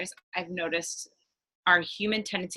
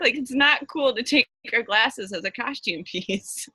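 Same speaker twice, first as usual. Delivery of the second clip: mock scolding; 8 semitones higher than usual. Teasing Jack about borrowed glasses.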